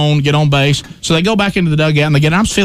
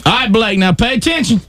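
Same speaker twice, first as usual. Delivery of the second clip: put-on higher, casual call to your kid; quick parental reminder, pitched up; sideline call; 6 semitones higher than usual. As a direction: call over to a distracted child. Calling to son from the stands.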